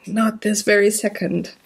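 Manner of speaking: normal talking voice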